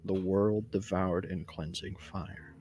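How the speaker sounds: prayer recitation. Acted.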